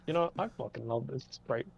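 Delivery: mock Jewish dad. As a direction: murmur it like a deadpan father. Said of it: "those stories are like".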